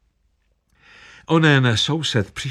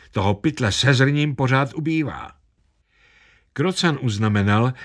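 ordinary delivery, nothing marked

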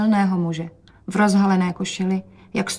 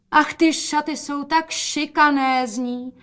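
higher, slow admiring cry; exclaiming; 7 semitones higher, slower than usual. Acted. Mother exclaims over the dress for father to hear. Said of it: "zvolala matka".

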